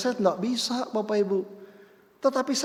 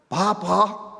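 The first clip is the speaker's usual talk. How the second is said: put-on crying child; 3 dB louder than usual. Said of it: "Dia nangis".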